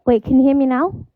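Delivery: muffled mic sound; muffled, as if behind a wall; through a wall. Real, not acted. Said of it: "you sound, like, muffled".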